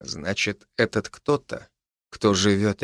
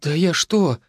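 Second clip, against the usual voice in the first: sobbing; 6 semitones higher than usual. Acted. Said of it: "всхлипнула Марийка".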